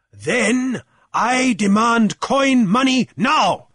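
slow, high, emphatic shout; loud demand. A narrator's reading. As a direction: demand it word by word. Jeremiah makes his demand.

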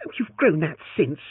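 challenging. Acted. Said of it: "she challenged".

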